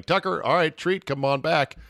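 1 retold call to dog.

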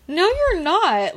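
high, slow, drawn-out no you're not; flat dismissal. Retold or imitated. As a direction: shut down the patient's claim. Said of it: "And I'm like".

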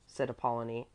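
plain reading voice

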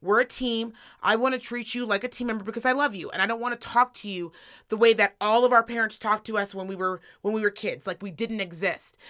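gentle request. Retold or imitated. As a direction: ask kindly, like a teammate. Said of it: "I just said".

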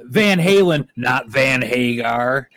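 lightly imitated rocker, emphatic then drawn out; movie rocker impression. Host continues the Joe Dirt quote, lightly imitated rocker voice. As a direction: quote the rocker with a slow finish. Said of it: "where he's like".

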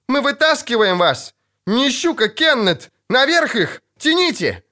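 high, urgent shouted orders; крик. A narrator's reading. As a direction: shout commands to a hauling crew. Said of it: "крикнул сверху Лютик". (кричать сверху, срочно командуя)

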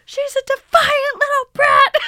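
screamed, very high and loud; mom yelling. Retold or imitated. Mom shouting about her daughter, furious shriek. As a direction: shriek it in a rage. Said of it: "She's like".

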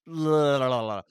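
loud babbled la-la-la dropping in pitch; mock brain meltdown. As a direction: babble as if your brain broke. Brain overwhelmed by stupid science.

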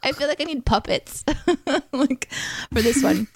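put-on high, giggly kid's voice; a hint of a child laughing; pinched voice. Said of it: "this kid's voice".

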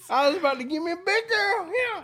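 laughing. Real, not acted. Both crack up over the story.

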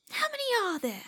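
high-pitched breathy whisper. Pretend. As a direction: float the question up in a thin whisper. Repeats the question in a high whisper.

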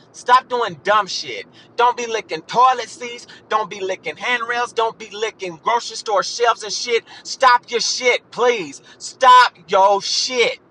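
fed-up scolding, hammering each demand; real pissed-off lecture; ranting and raving. Real, not acted. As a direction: rant at them, slowing hard on the final plea. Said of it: "I'm ranting and raving 'cause I'm fucking pissed off".

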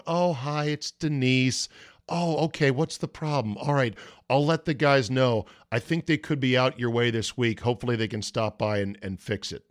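a light friendly phone-voice impression; imitating friendly receptionist. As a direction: sweeten it like the cheerful woman on the phone. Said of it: "a very friendly woman on the phone".

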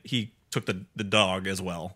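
ordinary talk, nothing marked

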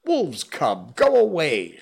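high loud angry cries; priest shouting. Acted. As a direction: bark him out of the village. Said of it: "shouted the priest".

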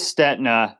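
"Stetina" as STET-na, two syllables; silent-I pronunciation. Shown as a demonstration. Guest confirms his own surname, "Stetina" as STET-na. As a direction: drop the I in "Stetina": STET-nuh. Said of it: "Stetina with a silent I".

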